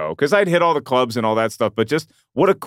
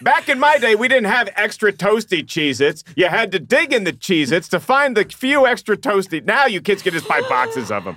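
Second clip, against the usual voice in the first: put-on lightly raised grumpy old man; 6 semitones higher than usual. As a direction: play up a crotchety old man. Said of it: "you sound like an old man".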